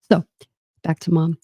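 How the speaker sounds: ordinary delivery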